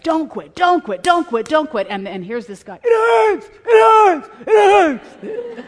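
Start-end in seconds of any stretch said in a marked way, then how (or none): 0.0-1.9 high, loud urgent coaching cry. Retold or imitated. Coach urging his player not to quit, rising to a shout. 2.8-5.6 high, loud strained cry of pain; player in pain. Retold or imitated. Exhausted player calls out to his coach that it hurts, strained high cry.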